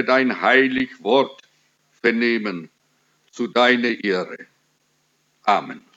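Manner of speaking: low, measured praying voice; prayer. Real, not acted. Preacher leads the congregation in prayer before the reading, praying.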